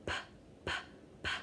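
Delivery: "p" as an isolated puff, three times; letter sound demo. Shown as a demonstration. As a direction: pop each "p" separately, with pauses. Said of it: "sound like the w sound".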